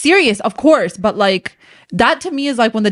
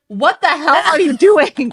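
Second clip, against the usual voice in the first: mock outrage; 4 semitones higher, slower than usual. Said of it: "And I'd be like".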